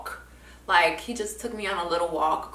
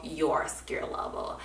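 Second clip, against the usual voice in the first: softly whispered, slow; whispered emphasis; 3 semitones lower, 8 dB quieter, slower than usual. Real, not acted. Speaker to listener, a slow whispered point. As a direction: drop to a whisper to stress it. Stressing it's her own level.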